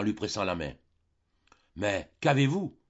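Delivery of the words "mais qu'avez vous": high, louder alarmed question; a daughter suddenly scared for her father; frightened question. Acted. Delphine, frightened for her father, asks what is wrong. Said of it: "dit-elle tout effrayée".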